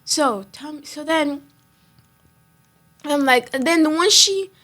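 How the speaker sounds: stumbling over words; stammering, can't get it out. Real, not acted. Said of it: "I'm stammering".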